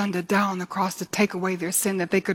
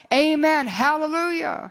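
high, ringing cry, drawn out at the end; cried-out praise; 8 semitones higher, slower than usual. Acted. Elders worshipping before the throne, crying out praise. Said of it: "and they cried".

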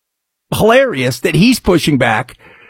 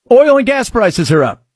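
ordinary talk, nothing marked

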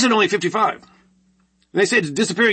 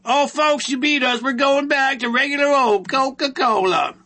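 higher, put-on fake-humble company spokesman; mock corporate apology; 6 semitones higher than usual. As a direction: play the Coke executive announcing defeat, voice raised. Mock Coke company announcement.

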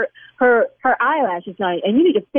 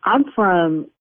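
lower, tough street warning; tough South Side; 6 semitones lower than usual. Acted. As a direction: drop lower and get hard with him. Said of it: "Yes, I'm gonna go there with you".

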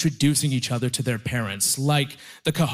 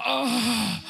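drawn-out, higher "oh" on a breath; deep breath "oh"; 7 semitones higher than usual. Retold or imitated. Brother-in-law breaking the tension, drawn-out breathy oh. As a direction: let out a long breathy oh. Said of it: "I took a deep breath".

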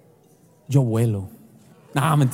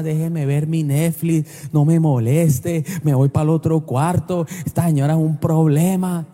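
lower, louder gruff brush-off; grumpy husband; 4 semitones lower, 5 dB louder than usual. Retold or imitated. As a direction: snap at the wife to leave you alone. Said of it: "Y uno de marido pone una almohada".

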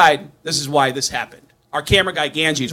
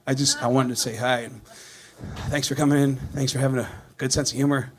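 sheepish greeting; 4 semitones lower, 6 dB quieter than usual. Retold or imitated. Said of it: "and I was like".

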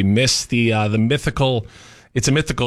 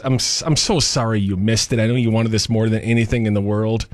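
attempted sympathy. Shown as a demonstration. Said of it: "Let me try this".

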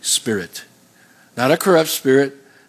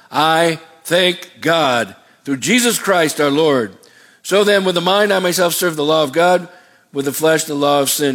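crying out. Acted. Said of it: "Then he cries out".

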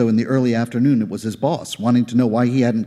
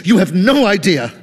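high, pained and pleading; anguished plea; 8 semitones higher, 4 dB louder than usual. Acted. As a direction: push the hurt higher. Plea repeated, climbing higher.

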